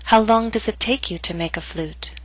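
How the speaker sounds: "How long does it take you to make a flute?" falling to the end; falling intonation. Shown as a demonstration. Teacher models question to repeat, falling intonation. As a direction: step down in pitch to "flute". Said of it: "practice intonation patterns and questions".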